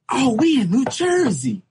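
high, laughing realization; cracking up at realizing he was in New Jersey. Real, not acted. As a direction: laugh through the punchline.

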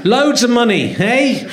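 lightly done catchphrase impression; Loads of Money. Comic impersonating a flash plasterer with money, light impression. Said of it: "That was my impression of loads of money".

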